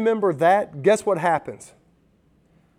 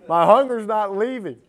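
higher and louder, driving the words home; emphatic repeat; 5 semitones higher, 7 dB louder than usual. Shown as a demonstration. Preacher repeating it louder to press the point. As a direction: push the repeat harder with rising force.

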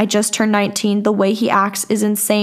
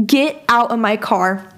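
slower, spaced-out firm command; slow retold order; slower than usual. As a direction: repeat the order slowly, word by word. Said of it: "I was screaming".

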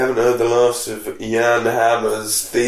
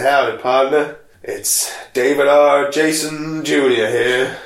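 mock American cowboy. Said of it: "in America, they said".

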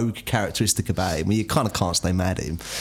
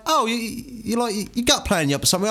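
stepdad calling; 9 semitones higher than usual. Retold or imitated. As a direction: lightly mimic the cheery stepdad calling in. Stepdad voiced in story.

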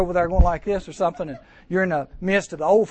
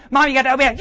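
whiny family member; 8 semitones higher, 8 dB louder, faster than usual. Acted. Acted family bickering before church.

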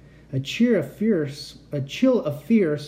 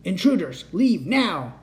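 robot command; 4 semitones higher, slower than usual. Acted. Robot blocks their path.

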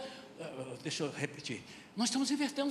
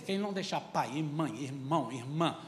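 lower, softer reading of Quem não deixar pai e mãe; solemn scripture quote; 7 semitones lower, 4 dB quieter than usual. Shown as a demonstration. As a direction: intone the verse gravely. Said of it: "olha o que ele vai dizer".

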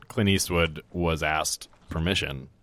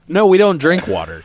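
mock saloon tough guy; 11 semitones higher, 11 dB louder than usual. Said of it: "Because it's like".

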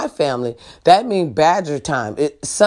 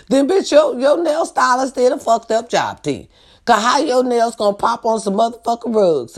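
laughing scoff; 5 semitones higher than usual. Real, not acted. Mocking the niece's nails.

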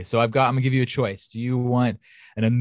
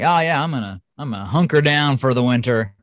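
lightly voiced self-satisfied bear; a hint of a folksy bear character; bear's voice; 5 dB louder than usual. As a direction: play the bear settling in, a bit louder. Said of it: "And the bear was like".

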